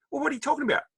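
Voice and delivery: put-on high, puzzled girl; mean girl's voice. Former mean girl answering him, high and puzzled. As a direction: play the clueless former bully.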